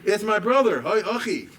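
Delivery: retold scream of grief, pitched high; anguished scream. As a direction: cry out for a lost brother. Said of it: "they hear a scream".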